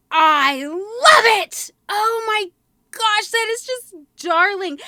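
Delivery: gushing delight. Real, not acted. Gushing over hat ornament.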